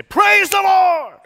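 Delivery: drawn out, loud and high; slow triumphant shout. Retold or imitated. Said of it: "To which she would say".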